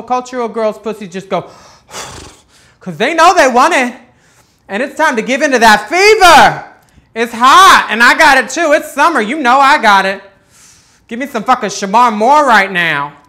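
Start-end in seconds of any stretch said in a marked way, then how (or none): 4.7-13.2 louder, heated and lusty; loud horny rant. Real, not acted. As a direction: rant it out with hungry excitement. Lustful fantasy rant, loud.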